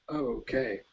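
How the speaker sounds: mock bemused surprise. Interviewer recalls hearing children speak Swedish, mock bemused surprise.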